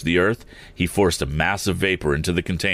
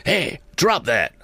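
high, drawn-out challenge; restrained shout; 9 semitones higher, slower than usual. A narrator's reading. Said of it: "shouted Mister Sharp".

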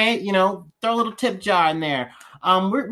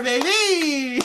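laughing; 10 semitones higher than usual. Real, not acted. Laughing fit.

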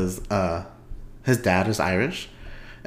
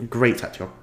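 tongue slip. Real, not acted. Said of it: "Oh my God, I just choked".

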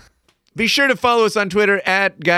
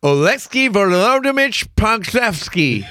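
rip through the name in one go; high, rushed blurt of a hard name; as fast as possible; 6 semitones higher than usual. Real, not acted. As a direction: rattle it off like ripping off a Band-Aid. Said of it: "say it as fast as I can".

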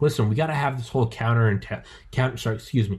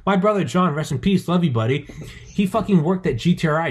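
high-pitched, worked-up rant; getting excited; 7 semitones higher than usual. Real, not acted. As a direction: argue it heatedly, voice pitched well up. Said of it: "Sorry, I'm getting excited".

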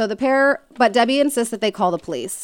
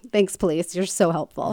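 sarcastic; 4 dB quieter than usual. Pretend. Sarcastic thanks to useless police advice.

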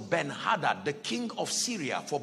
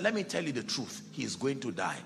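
hushed confiding; 4 semitones lower, 5 dB quieter than usual. Acted. Prophet confiding grim prophecy.

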